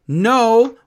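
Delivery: a loud, high no; sharp retold no. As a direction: shut the idea down. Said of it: "and Nikki's like".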